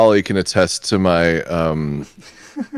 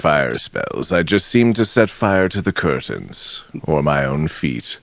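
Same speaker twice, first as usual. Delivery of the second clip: Vincent Price impression. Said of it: "doing an impression of what you just did".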